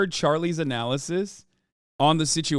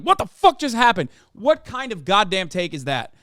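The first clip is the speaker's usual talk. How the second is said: mock disbelief; 2 semitones higher than usual. Acting out viewer's shock at ad.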